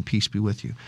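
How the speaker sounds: hushed, gentle peace be with you; soft, tender blessing. Retold or imitated. Jesus greeting frightened apostles, softly and tenderly.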